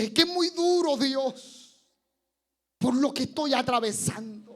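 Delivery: queja actuada, más aguda y enfática; queja dolida. Acted. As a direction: protesta ante Dios alzando el tono. Voz del creyente que se queja. (queja dolida ante Dios)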